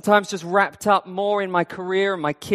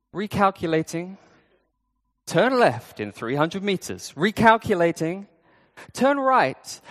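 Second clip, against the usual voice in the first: even, unhurried sat-nav announcement; calm GPS voice. Pretend. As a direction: read it like a patient navigation system. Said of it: "they say very calmly".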